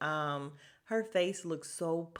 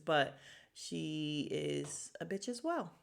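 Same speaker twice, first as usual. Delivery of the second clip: slow disdainful; slower than usual. Real, not acted. Vlogger disses a housewife.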